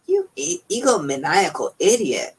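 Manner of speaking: sudden high furious outburst at Hammond. A narrator's reading. Malcolm furiously insults Hammond, high and loud. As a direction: spit out the insult in fury. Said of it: "Malcolm said in fury".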